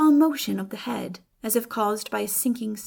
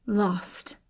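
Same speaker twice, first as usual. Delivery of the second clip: whispered despair; 4 dB quieter than usual. A narrator's reading. Despairing at her vanishing.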